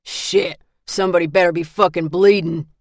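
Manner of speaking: loud grumbling yell; angry yell. Acted. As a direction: yell through the door. Grumpy man yelling through door.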